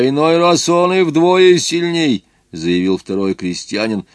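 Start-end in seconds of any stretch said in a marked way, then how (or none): 0.1-2.2 выше и громче, медленно; с жаром поддакивает, медленно; возбуждённо. Acted. (взволнованный крестьянин, выше и громче)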